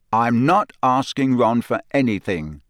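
flat, toneless refusal. Acted. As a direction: shut it down, no emotion. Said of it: "Harry said flatly".

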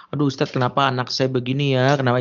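mock plaintive question to the teacher; orang tua mengeluh. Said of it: "Itu namanya childrening". (orang tua mengeluh soal anak)

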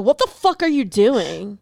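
slow, mildly indignant retort; retold scolding. Wife to husband taking off his pants, mock scolding. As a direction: imitate a wife telling him off, drawn out.

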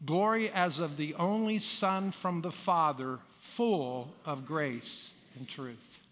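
standing congregation reading scripture; many voices in unison. Acted. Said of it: "Okay, so let's read it again".

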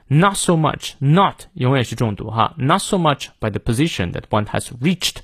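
"not" hit firmly each time; stress on NOT. Shown as a demonstration. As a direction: punch "not" at the start. (重读"not")

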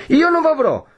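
high-pitched raging threat; distraught cry. A narrator's reading. Renzo threatens to go after his rival, distraught and raging. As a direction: rave on, beside yourself. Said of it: "gridò Renzo con un viso più che mai stravolto".

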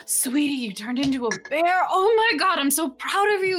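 put-on high-pitched gushing over her kid; proud, giggly mom. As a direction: gush like a delighted, tipsy mother. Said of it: "kind of super proud and giggly".

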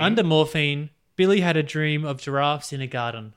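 understated, natural Australian accent. Shown as a demonstration. Host repeating the example line, easy Australian accent. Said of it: "that's it with the Australian accent".

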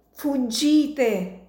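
high, rasping gasp of a dying man; death rattle. Acted. Dying American gasping at Martino to flee. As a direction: force the word out with a rattle. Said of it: "rantolò l'americano".

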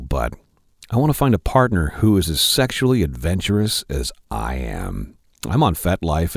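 low, sultry letter reading; a hint of a seductive read; deep sultry voice. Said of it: "I'm gonna do this in the deep, sultry voice".

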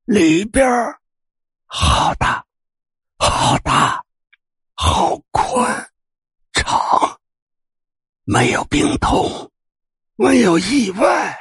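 very slow, high, whispery lure; eerie ghost voice. Acted. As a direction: tempt her in, drawn out and creepy. Ghost old man beckoning.

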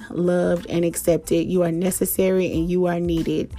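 calm closing blessing; gentle affirmation. Acted. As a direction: reassure your listeners kindly. Soft affirming sign-off.

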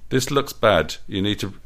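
a touch of motherly scolding; chiding. Acted. Doris chides the bleeding Michael, lightly scolding. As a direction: mildly scold him like a worried mum. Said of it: "she chided him".

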